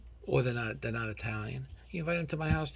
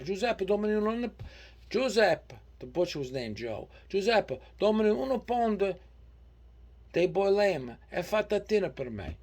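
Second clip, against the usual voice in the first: high, loud Italian American mother; mother ordering at butcher; 6 semitones higher, 3 dB louder than usual. Retold or imitated. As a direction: call out like an Italian mom at the counter. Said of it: "My mother used to walk into the butcher shop".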